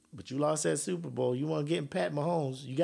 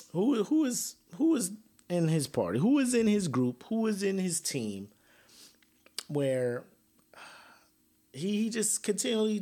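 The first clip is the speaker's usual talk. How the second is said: exasperated; 5 semitones higher than usual. Real, not acted. Exasperated rhetorical questions.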